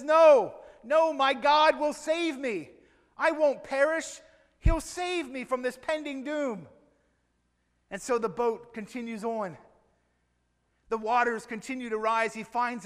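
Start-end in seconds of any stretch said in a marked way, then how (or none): 0.0-6.7 insistent refusal. Acted. Stranded man refusing the boat, loud insistent refusal. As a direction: dig in and refuse the rescue.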